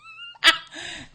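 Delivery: high, tearful laugh; real laugh with tears; high laugh-cry. Real, not acted. Laughs recalling the trick.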